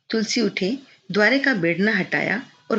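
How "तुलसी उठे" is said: plain reading voice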